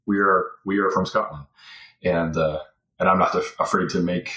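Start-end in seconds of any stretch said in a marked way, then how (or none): 0.1-1.5 stubborn nope. Retold or imitated. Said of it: "And she was like".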